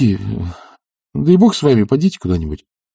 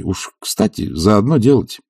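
ordinary talk

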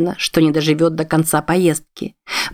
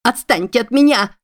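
высокий испуганный выкрик женщины; отбейся от него в страхе, высоко; испуганный крик; 6 semitones higher than usual. Acted. Испуганная женщина отбивается кнутом. (высокий испуганный крик женщины)

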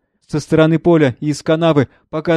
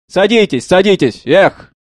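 grumbling; 5 semitones higher, 4 dB louder than usual. Acted. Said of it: "Шофёр ворчит".

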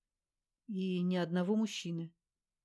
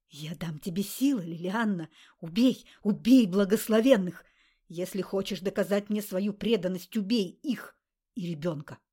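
a booming, much louder voice, peaking on "убей"; demanding demon; 7 dB louder than usual. A narrator's reading. Grarg demands Liliana kill the blessed, roaring. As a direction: roar the kill order from the ring. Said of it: "требовал Грарк".

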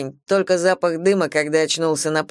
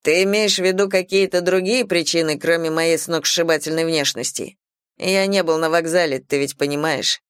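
teasing, lightly voiced young man; cocky young man. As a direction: play a cocky bad boy. Tyler's lines voiced.

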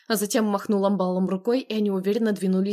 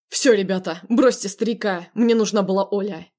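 commanding; 4 dB louder than usual. Acted. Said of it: "скомандовал он".

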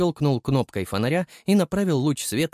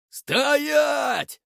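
mighty roar. A narrator's reading. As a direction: yell him to a halt. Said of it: "могучий рёв".

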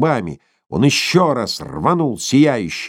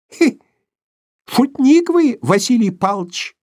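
put-on old prospector; 14 semitones higher, 3 dB louder than usual. Old man voiced in story.

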